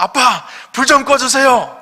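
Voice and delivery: high, loud, slow drawn-out call; child calling again. Retold or imitated. Child calling dad a second time to turn off the light, slow loud high call. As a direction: stretch the call out to a far room.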